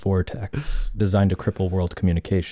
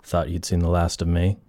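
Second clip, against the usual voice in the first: Henry Cavill impression; 3 semitones lower than usual. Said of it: "That's a very good Henry Cavill".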